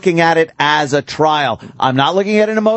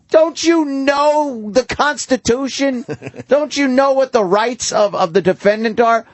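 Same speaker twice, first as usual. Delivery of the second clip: scolding; 6 semitones higher than usual. Real, not acted. Scolding the caller.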